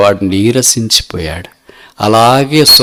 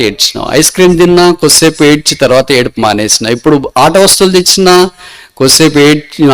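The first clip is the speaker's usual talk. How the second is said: higher-pitched, mildly exasperated scolding; acted exasperation; 3 semitones higher, 4 dB louder than usual. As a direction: list the complaints as a fed-up carer, pitch climbing to the final question. Man loses patience with crying child. (విసుగు నటిస్తూ పిల్లవాడిని నిలదీసినట్టు)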